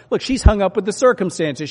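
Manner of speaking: ordinary delivery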